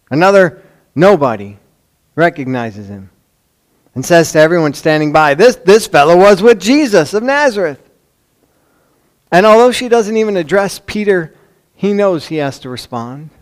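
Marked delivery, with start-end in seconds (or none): 5.3-7.8 raised, louder pointing-out of a culprit; mock accusation. Servant girl to everyone standing by, accusing. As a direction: announce him to all the bystanders, higher.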